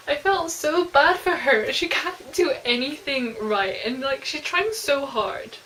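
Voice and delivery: slow, drawn-out sympathy; pitying. Real, not acted. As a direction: lament it slowly, aching for her. Reader pities the heroine.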